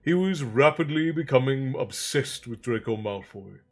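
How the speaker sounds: measured audiobook-style reading; story narration. A narrator's reading. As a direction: read the story aloud with deliberate phrasing. Reads novel aloud.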